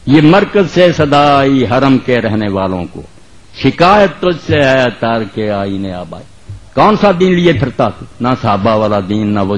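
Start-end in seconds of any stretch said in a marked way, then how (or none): 0.0-6.2 poetry recitation. Acted. Preacher reciting Urdu verse to the congregation, measured declamation. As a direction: recite it line by line, letting vowels stretch.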